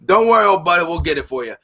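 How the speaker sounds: lightly put-on southern accent, friendly old-timer; a hint of a Cajun scrapyard owner calling everyone old buddy; Arkansas Louisiana drawl. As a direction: play a good old boy from Louisiana. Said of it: "Arkansas, Louisiana style".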